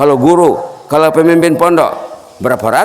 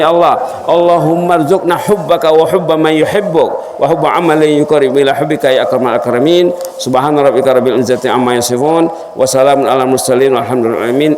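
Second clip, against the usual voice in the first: earnest prayer voice, lightly chanted; closing prayer. Acted. Preacher prays for the Darussalam students, earnest devotion. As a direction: pray over the students with devotion.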